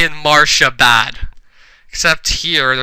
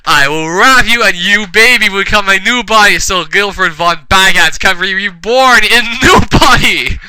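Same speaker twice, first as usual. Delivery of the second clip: hammed-up villain; 5 semitones higher, 5 dB louder than usual. Villain threatens in fanfic.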